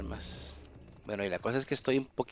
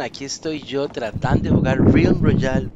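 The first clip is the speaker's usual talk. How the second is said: shouting over wind; 6 semitones higher, 13 dB louder than usual. Real, not acted. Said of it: "ahí el viento".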